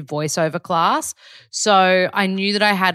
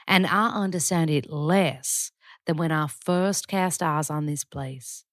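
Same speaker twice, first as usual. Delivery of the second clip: put-on Southern accent. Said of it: "I'm gonna do it for you".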